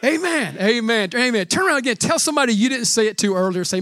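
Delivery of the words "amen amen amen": ragged group unison. Real, not acted. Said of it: "would you say it with me?".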